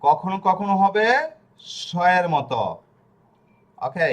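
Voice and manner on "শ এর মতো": স said as a hushing "sh"; sh sound. Shown as a demonstration. Teacher answering own question, স as a clear "sh". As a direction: say স like the "sh" in ship. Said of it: "তালিবাস স".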